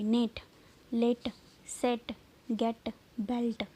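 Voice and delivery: word list, each with a short "eh" as in नेट; short e demo. Shown as a demonstration. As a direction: pronounce नेट, लेट, सेट with a short "eh" vowel. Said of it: "ई की sound आई". (नेट, लेट, सेट में छोटी ए की ध्वनि)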